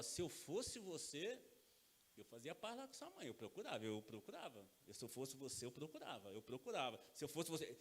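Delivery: voz baixa e grave, repetindo com paciência; conselho manso de pai. Acted. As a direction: insista de mansinho, sem brigar. (conselho baixinho, de mansinho)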